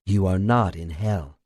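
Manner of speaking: gentle, soft reassurance; calm the frightened man quietly; softly. A narrator's reading. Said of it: "Then, softly".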